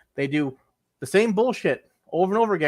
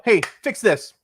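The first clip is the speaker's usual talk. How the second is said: mock yelling; 3 semitones higher, 4 dB louder than usual. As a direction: shove the blame at support.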